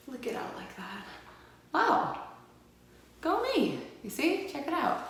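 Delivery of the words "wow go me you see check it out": much higher and louder, delighted squeal; thrilled self-praise. Real, not acted. Vlogger cheering at her finished eyeliner, thrilled squeal. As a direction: cheer yourself on after nailing the flick.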